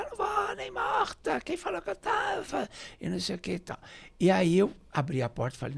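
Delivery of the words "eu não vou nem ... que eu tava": very high-pitched mock shouting; hammed-up shriek without full volume; imitated screaming. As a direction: imitate her yelling from inside the house. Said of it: "foi uma gritaria dentro da casa".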